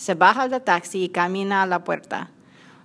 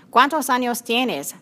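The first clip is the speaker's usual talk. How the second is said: a touch slower, each word spelled out for a learner; slow it down so she understands; said very slowly; 5 semitones higher than usual. Acted. Susana repeats the question slowly for Ana, mildly slower. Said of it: "repite Susana muy despacio".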